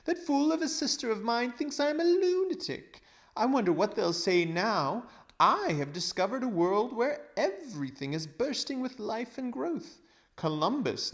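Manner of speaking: high, loud, gloating schemer's voice; a pompous old man crowing over his fortune; greedy old uncle. Acted. Uncle Andrew boasting to the children about riches, gloating.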